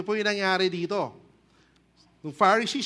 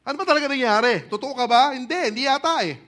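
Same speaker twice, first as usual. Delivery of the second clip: incredulous questioning; 4 semitones higher, 6 dB louder, faster than usual. Acted. People demanding an explanation.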